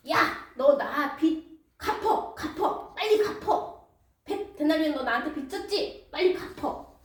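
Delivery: grabbing a collar, barking for the money; rough demand. Acted. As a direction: snap at him to pay up now. Servant grabs colleague by collar.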